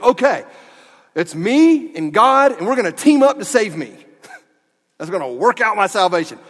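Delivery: lampoon the misreader as he pairs up with God; mock eager believer. Mocking a misreading of scripture.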